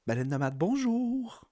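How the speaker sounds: bright upbeat phone greeting. Shown as a demonstration. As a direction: answer the phone cheerfully. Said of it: "ma voix de téléphone".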